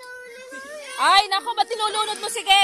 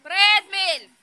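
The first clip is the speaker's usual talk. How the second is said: louder repeated call; 2 semitones higher, 7 dB louder than usual. Real, not acted. Adult calling a child to the photo, louder call. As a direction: raise the voice to call again.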